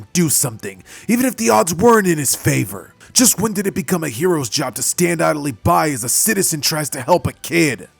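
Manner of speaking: angry rant. Acted. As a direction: tear into the reporters. Bakugo chews out the media.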